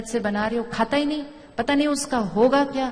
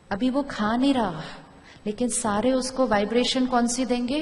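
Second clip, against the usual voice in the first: usual speaking voice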